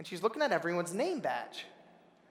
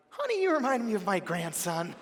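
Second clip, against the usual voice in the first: lightly voiced sweet old lady; a hint of a doting grandmother; 3 semitones higher than usual. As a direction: gently imitate a kindly old woman. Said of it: "this old lady, really sweet".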